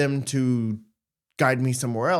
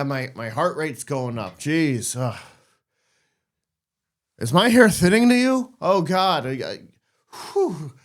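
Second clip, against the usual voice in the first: panicked self-talk; 3 semitones higher, 4 dB louder than usual. Retold or imitated. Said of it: "You go".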